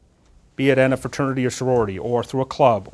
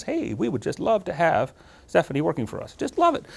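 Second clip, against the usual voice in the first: mock gushing; 3 semitones higher, 5 dB quieter than usual. Imagined company letter offering a job out of nowhere, mock gushing. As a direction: imitate an eager employer, lightly mocking.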